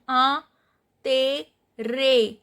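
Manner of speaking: "a, te, re" in separate pieces, first one nasal; nasal "a", pause, then "te", "re" apart; nasal, syllable by syllable. Shown as a demonstration. Teacher breaks down the sounds for students, nasal "a" then separate "te, re". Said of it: "I N sound is nasal sound".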